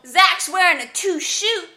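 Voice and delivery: "two shoot" for t-shirt, vowels as ooh; ooh language. Shown as a demonstration. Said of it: "which is t-shirt".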